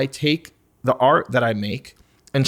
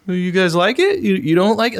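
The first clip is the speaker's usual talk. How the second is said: higher, needy mock plea for approval; pleading, pitched-up questions; begging teenager; 6 semitones higher, 4 dB louder than usual. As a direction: play a lightly voiced teen fishing for attention. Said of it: "begging people to look at me and pay attention".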